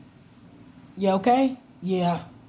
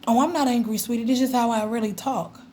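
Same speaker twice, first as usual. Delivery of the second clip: higher, sugary reassurance; mock sweet reassurance; 4 semitones higher, faster than usual. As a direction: sweetly insist you're not angry. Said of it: "I'm like".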